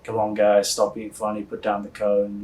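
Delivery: put-on thick Boston accent, cop voice; retold police officer with a thick Boston accent. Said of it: "in a thick Boston accent just was like".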